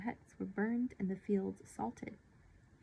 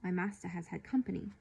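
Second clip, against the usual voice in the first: a light local British accent on the servant; 2 semitones lower than usual. Shown as a demonstration. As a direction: say it as a local Briton would. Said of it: "I wanted to give him an accent".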